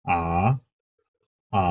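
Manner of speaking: আ টানা, টোন বদলে বলা; আ স্বরে চীনা টোনগুলো দেখানো; আ with Chinese tones. Shown as a demonstration. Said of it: "second টোনটা rising tone". (আ স্বরে টোন দেখানো)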